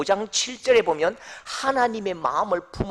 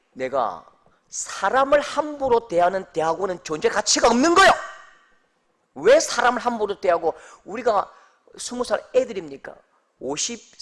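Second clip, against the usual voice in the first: retold angry phone complaint, building louder and higher; angry outburst; 3 semitones higher, 7 dB louder than usual. Examinee phones the graduate school to complain, exploding in anger. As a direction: re-enact blowing up, ending in a loud demand. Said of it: "그때 제가 이 폭발을 한 거죠".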